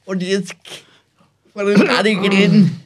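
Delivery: a hammed-up dark lord command. Mock command to listeners.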